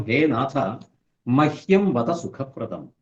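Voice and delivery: slow, measured Sanskrit chant with weight on മഹ്യം; slow sloka recitation. Shown as a demonstration. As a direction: intone the verse line deliberately. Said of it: "ഇതാണ് പാർവതി ചോദിച്ച വാക്ക്".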